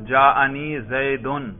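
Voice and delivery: زیدن slowly, with a clear "-un" ending; damma ending. Shown as a demonstration. Teacher giving an example of raf' as damma, damma ending. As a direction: say زیدن as a measured Zay-dun, short u sounded. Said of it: "ضمہ کی صورت میں آتا ہے".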